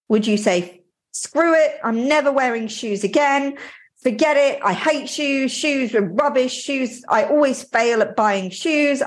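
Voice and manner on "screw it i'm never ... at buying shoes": higher-pitched, fed-up mini rant; hammed-up overreaction to a small failure; mock exasperation. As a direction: act out giving up in a huff. Voicing an absurd overreaction to mistake.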